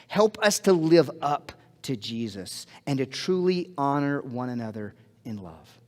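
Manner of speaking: slow, earnest prayer voice; closing prayer. Real, not acted. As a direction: pray it gently and sincerely.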